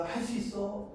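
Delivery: pleading. Acted. Old man begging to keep dancing, gently acted pleading. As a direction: plead lightly, voice lifted. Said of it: "이렇게 애원을 하잖아".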